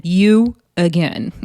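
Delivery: slow You again falling flat at the end; deadpan. Retold or imitated.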